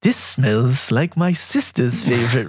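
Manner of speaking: slow, sly knowing remark; lightly voiced Tyrion, savoring the line; Tyrion impression. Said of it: "he grabbed it and he was like".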